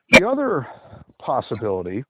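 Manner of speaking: out of breath from a climb; puffing between words. Real, not acted. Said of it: "if I sound like I'm huffing and puffing".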